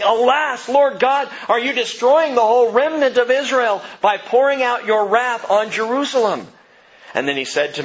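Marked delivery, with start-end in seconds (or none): 0.0-6.4 higher and louder, an anguished cry of alas; pleading prophet. Acted. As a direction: beg God to spare the remnant. Prophet's anguished plea to God.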